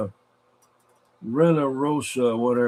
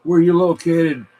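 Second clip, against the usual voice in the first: calling out; 4 semitones higher, 6 dB louder than usual. Real, not acted. Calling a station on the radio.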